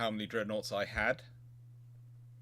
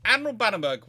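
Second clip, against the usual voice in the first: calling out; 9 semitones higher, 11 dB louder than usual. Real, not acted. Calling out a viewer name.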